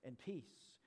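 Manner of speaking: slow, soft grace and peace; hushed and tender, very slow; gentle blessing. Shown as a demonstration. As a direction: offer it quietly like a benediction. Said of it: "you could say".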